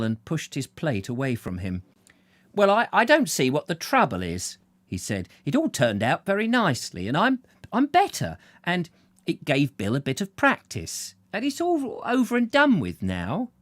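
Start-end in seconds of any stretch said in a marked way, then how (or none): 2.5-13.5 higher, stammering, placating voice; smooth it over nervously; nervous old man. Acted. Patient tries to calm the family, nervous and placating.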